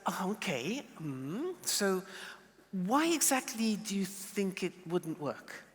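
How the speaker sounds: soft, open, curious asking; the curious chair's gentle question. Shown as a demonstration. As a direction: ask gently, really wanting to know. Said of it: "It's like".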